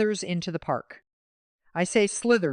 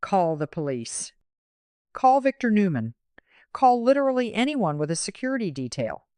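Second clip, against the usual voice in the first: half-yell it like urgent advice to a character; mock screaming at screen; 6 semitones higher than usual. Viewer pleading with a soap character on screen, mock screaming. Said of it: "I am screaming at the screen".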